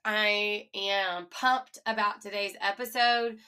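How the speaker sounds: stuffy nose, sinuses blocked; nasal voice. Real, not acted. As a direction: speak through a blocked nose. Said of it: "If I sound a little nasally".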